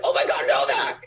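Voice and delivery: high, half-voiced excited squeal, laughing; starstruck fan. Drive-through worker recognizes the actor's voice, excited fan squeal. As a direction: imitate a gushing fan in a high voice.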